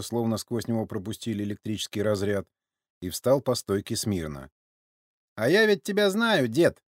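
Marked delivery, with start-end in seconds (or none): 5.4-6.8 high, knowing taunt; veiled mockery. A narrator's reading. Sergei lets the old man know he's recognized, veiled mockery. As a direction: needle them as if sharing a secret. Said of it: "Со скрытой насмешкой".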